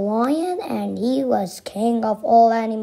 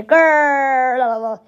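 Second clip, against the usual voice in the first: lion growl; 3 semitones higher, 4 dB louder than usual. A narrator's reading. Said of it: "when they heard him say".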